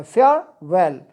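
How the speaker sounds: "फेयरवेल" in two parts with no R; silent R demo. Shown as a demonstration. Teacher confirming the silent letter, "फेयरवेल" without the R. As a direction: say "फेयरवेल" as फेय, वेल, dropping the R. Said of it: "आर silent है".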